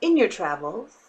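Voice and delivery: lightly put-on voice on in your travels; a hint of a storyteller voice. Shown as a demonstration. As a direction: say in your travels with a little mock flourish. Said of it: "I have to say it with that voice".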